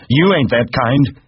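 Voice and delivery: put-on high, loud childlike exclamation; crying out. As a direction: cry it out with slow emphasis. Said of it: "Lenny cried".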